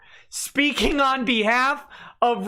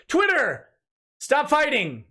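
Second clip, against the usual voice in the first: mock command; 3 semitones higher than usual. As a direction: call out high like a peacemaker. Mock command to feuding sides.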